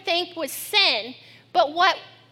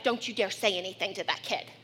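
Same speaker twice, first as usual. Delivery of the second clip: silent warning; 8 semitones lower, 8 dB quieter than usual. Retold or imitated. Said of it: "like the look".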